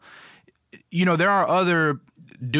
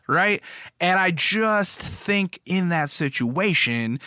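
usual speaking voice

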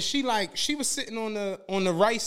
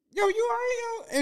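retold concern. Retold concern as tears well up.

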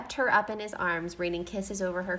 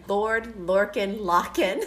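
laughing read; 4 dB louder, slower than usual. Real, not acted. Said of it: "reading while laughing".

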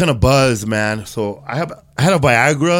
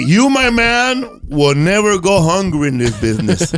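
high, slow proclamation; grand boastful mentor; 4 semitones higher than usual. Retold or imitated. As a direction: announce it like a big shot. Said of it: "And he points at me".

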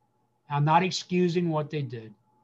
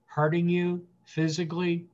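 stand-in father's apology. Pretend. Pastor speaking as the absent father to hurt listeners, gently sorry. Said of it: "And I wanna say to you".

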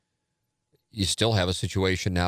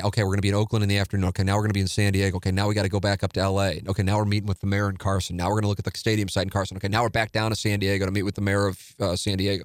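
frantic rush; faster than usual. Retold or imitated. Rushed itinerary retold.

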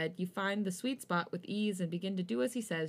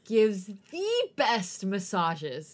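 laughing; 6 dB louder, much slower than usual. Real, not acted. Laughing through the sentence.

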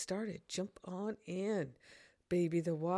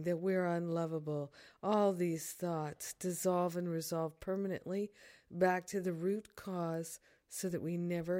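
prayerful. Acted. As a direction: lead the prayer calmly and earnestly. Leads a spoken prayer.

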